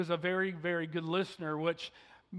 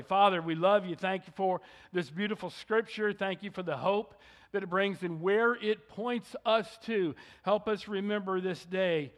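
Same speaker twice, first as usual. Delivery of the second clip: pulpit prayer; 2 semitones lower than usual. Acted. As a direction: pray it humbly for the church. Leads congregation in prayer.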